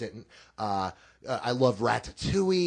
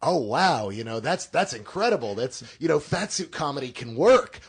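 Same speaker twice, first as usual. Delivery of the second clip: excited mock critic, a bit louder; mock gushing critic; 5 semitones higher, 3 dB louder than usual. Parodying critics praising fat suit comedy, hammed-up gush. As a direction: ham up an amazed film critic. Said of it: "you're gonna have critics say".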